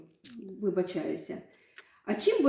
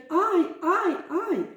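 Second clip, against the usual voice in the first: high startled ay ay ay; frightened cry; 8 semitones higher, slower than usual. Shown as a demonstration. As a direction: cry out as if scared. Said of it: "Як вигукають, коли злякаються? Кричать".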